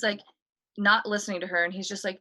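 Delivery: normal talking voice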